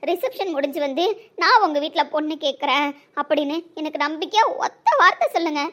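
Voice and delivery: ordinary talk, nothing marked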